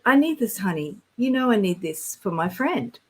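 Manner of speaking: mildly pleading mock complaint; lightly imitated insistent complaint; complaining. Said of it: "I was complaining to the divine".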